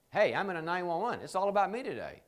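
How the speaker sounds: a mock emergency call for attention; urgent friend in crisis. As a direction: burst in needing help now.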